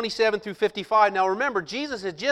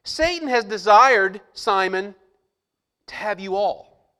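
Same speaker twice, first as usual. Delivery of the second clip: slow, louder, aimed at Simon; pointed and loud; 6 dB louder, slower than usual. Shown as a demonstration. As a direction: say it straight at Simon. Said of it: "then he looks at Simon and says".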